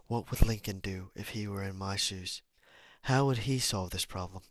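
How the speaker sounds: lightly put-on British accent; a hint of British in a read-aloud quotation. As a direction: slip into a British voice for the quote. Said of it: "I apologize for doing a British accent".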